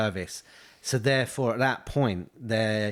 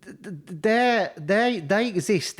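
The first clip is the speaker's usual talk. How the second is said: Cockney voice; 10 semitones higher than usual. Retold or imitated. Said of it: "All right, Mickey Flanagan".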